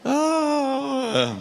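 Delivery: laughing. Real, not acted. Laughing after congregation repeats.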